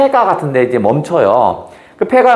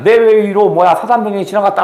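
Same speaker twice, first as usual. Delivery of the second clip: fierce retort; 4 semitones higher than usual. Acted. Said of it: "아주 거세게 나오는 거야".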